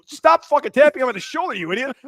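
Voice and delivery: high, loud mock scolding; retold exasperation. Patient scolding nurse tapping his shoulder, exasperated. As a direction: act out an exasperated telling-off.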